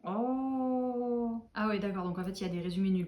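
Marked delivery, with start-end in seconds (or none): 0.0-1.4 drawn-out "oh" held on one note; long dismayed "oh". Real, not acted. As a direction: let out a long, sustained "oh". Finds she has no summary. (long « oh » dépité)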